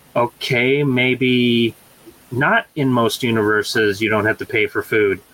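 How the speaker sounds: ordinary talk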